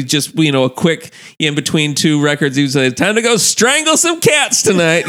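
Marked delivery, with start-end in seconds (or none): 3.0-5.1 mock cheerful quote. Mimicking coworker's catchphrase.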